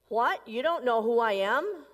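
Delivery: can't believe she doesn't know him; outraged disbelief. Acted. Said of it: "really angry".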